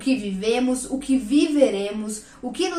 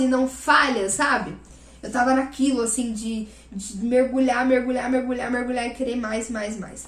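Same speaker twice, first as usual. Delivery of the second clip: normal talking voice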